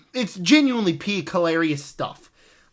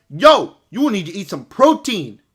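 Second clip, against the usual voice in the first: put-on rapper accent; 6 dB louder than usual. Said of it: "my best rapper accent".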